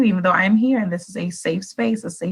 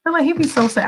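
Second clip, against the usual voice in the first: a hint of wonder; 6 semitones higher than usual. Imagining God pouring.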